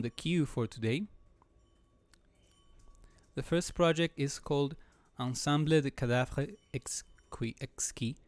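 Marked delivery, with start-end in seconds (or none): 5.2-8.1 hesitant, slow broken French. Real, not acted. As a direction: Ensemble de Cadavres Exquis sounded out unsure. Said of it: "I guess".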